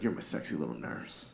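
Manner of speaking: low, soft mock-seductive voice; dirty talk. Husband sweet-talking his nurse wife, mock dirty talk. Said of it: "I tried to dirty talk my wife".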